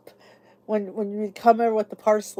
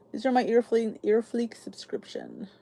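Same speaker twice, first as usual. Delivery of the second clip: whispered repeat; 4 dB quieter than usual. Real, not acted. Repeats subscription name, hushed.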